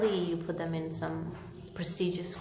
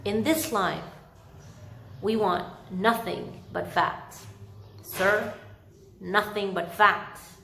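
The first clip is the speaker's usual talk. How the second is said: louder, firm lecturing voice; a stern, louder speaker insisting on facts; dictatorial schoolmaster; 2 semitones higher, 5 dB louder, slower than usual. Acted. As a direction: lay down the law, inflexible and dry. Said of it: "inflexible, dry, and dictatorial".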